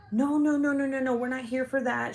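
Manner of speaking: high-pitched string of quick denials; hasty placating. Retold or imitated. Visiting mom heading off a fight, placating. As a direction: wave off the accusation in a high imitating voice. Lady placating an angry mother.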